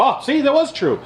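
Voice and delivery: high mock insistence; mock minions. Mocking Fox minions crowing it was true. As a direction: ape the minions' smug chant. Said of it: "their minions go".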